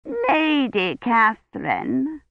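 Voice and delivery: "Lady" drawn out slow and high; odd emphasis on lady. A narrator's reading. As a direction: lean oddly on "Lady", suspicious. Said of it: "an odd emphasis on the word lady".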